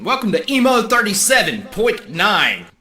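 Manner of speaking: upbeat station announcer; radio DJ voice. Pretend. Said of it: "That sounds like a radio station".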